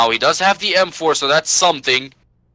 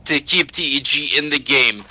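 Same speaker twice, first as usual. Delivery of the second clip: esports caster; 3 semitones higher than usual. Real, not acted. Caster building tension in clutch.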